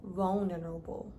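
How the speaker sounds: Vulnerable said slowly, each syllable placed; careful pronunciation. Shown as a demonstration. Practising the word for viewers, slow and careful. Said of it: "How do I look this word up?".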